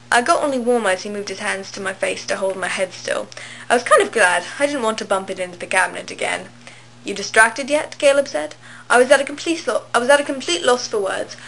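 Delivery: put-on amateur British accent reading aloud; horrible British accent. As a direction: read the story in a badly faked British accent. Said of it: "in a horrible British accent".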